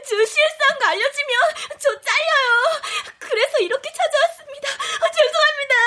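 apologizing through tears; weepy, desperate voice; tearful apology. Acted. New employee begs not to be fired, crying. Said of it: "울지 마요".

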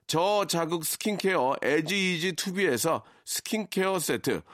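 brisk ad read of prize list; sponsor list read. Acted. (라디오 협찬 광고 낭독)

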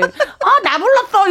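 high-pitched eager pet voice; playful mock pet reply, laughter in it; dog answering its name. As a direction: pipe up as the dog who heard its name. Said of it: "이러고 오면 어떡해요".

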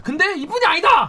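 loud, high proclamation; mock dramatic announcement. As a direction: call it out like a showman. Host proclaims there is more.

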